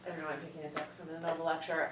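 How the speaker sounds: talking between sips of coffee; words around a sip of coffee; sipping hot tea. Real, not acted. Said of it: "like, slurping my coffee".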